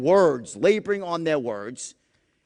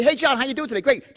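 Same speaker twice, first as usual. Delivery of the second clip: upbeat greeting; 6 semitones higher, faster than usual. Shown as a demonstration. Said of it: "We say".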